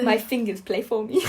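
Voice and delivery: savant stereotype. Pretend. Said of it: "reinforcing a bit of a savant stereotype".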